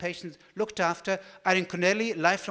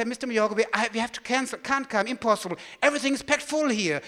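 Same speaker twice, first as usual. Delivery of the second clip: raised, higher voice, talking over street noise; calling over traffic; 4 semitones higher, 4 dB louder, faster than usual. Retold or imitated. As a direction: call it out over rush hour. Calling from rush-hour street noise.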